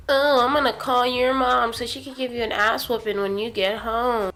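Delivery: put-on voice for a threatening teacher; mocking teacher voice. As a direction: mimic her tattling threat with scorn.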